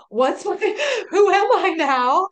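laughing through the words, slow. Real, not acted. Asking who she is now, laughing. Laughing at her own crisis.

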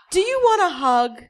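high, loud silly buddy voice; high goofy offer; goofy friend voice. Acted. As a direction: cheerfully offer a hug. Joey offers naked hug.

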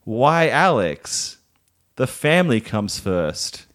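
slow Southern American drawl; mum's Southern accent. Shown as a demonstration. Demonstrating the mum's Southern accent for a co-host to repeat. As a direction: lay on a Southern mom accent for a friend to copy. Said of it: "say this phrase in the mum's accent".

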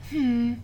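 flat hum. Shown as a demonstration. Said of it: "to, like".

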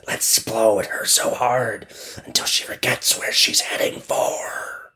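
eerie fading whisper; whirlwind plotting. Acted. Whirlwinds plotting against the girl, whispered. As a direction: scheme in a breathy wind whisper.

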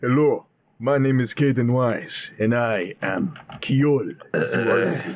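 coughing through intro; cough over word. Real, not acted. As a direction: cough breaking the name. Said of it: "Just coughing over his intro".

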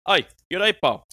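high Scottish greeting; mock Scottish; Scottish accent. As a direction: imitate a cheery Glaswegian hello. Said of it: "and he goes".

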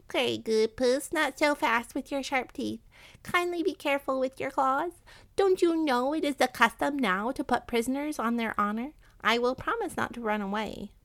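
high-pitched rat voice, pleading. Acted. Captured rat bargaining with a hungry cat, pleading.

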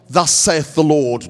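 mock-grand thus-saith-the-Lord delivery; pompous proclamation. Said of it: "humbly sharing it is not".

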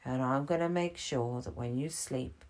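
tuck him in with your voice; soothing Gibbons. Acted.

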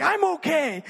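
hammed-up defensive outburst; insistent mock yell. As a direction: prove the point, half-shouting. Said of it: "you gotta prove a point".

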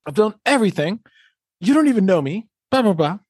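mock-indignant high whine; whiny mock complaint. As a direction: whine it like a hurt worker who feels unseen. Mocking a resentful employee's complaint.

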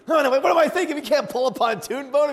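high, loud, frantic backtracking; hammed-up frantic objection; acted panic. Dad rethinking towing the boat, high loud mock panic.

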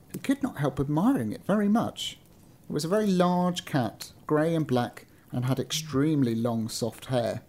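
measured storybook reading; story narration. A narrator's reading. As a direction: read it out like an old-fashioned tale. Reads a story aloud.

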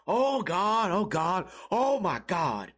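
imitating a panicked guy's moaning, drawn out at the end; mock panic. Stranger still panicking over his keys, mock moaning. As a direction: groan it like a man losing it. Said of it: "the guy kept freaking out".

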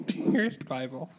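slow, mock-solemn prayer opening. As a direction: read it like a pompous letter to God, slowly. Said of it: "Stop, stop, stop".

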